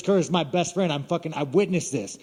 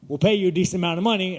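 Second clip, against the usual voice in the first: put-on suave Australian accent; 4 semitones higher, faster than usual. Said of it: "his suave Australian motherfucking ass says".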